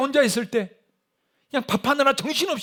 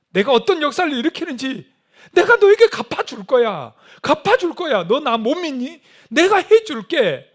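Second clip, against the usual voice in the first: impassioned urging; 4 semitones higher, 4 dB louder than usual. Acted. Preacher voicing God urging dawn prayer, impassioned. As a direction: press them hard, then promise emphatically.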